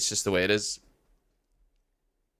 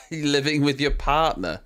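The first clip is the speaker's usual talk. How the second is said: retold question; 3 semitones higher than usual. Mocking retelling of the question to Tom. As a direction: repeat the question to the mate. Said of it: "I said".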